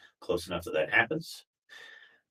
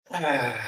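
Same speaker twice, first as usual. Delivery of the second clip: long audible exhale on "ah"; dramatic sigh; 3 semitones higher than usual. Shown as a demonstration. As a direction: breathe out a big open sigh. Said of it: "let out a big sigh".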